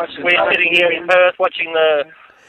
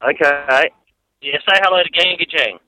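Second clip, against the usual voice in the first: phone speaker. Real, not acted. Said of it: "I'll put you on speaker".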